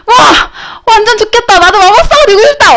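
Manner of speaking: high-pitched, gushing wide-eyed wonder; thrilled child. Retold or imitated. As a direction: gush like an awestruck little kid. Retold childhood self thrilled by magic.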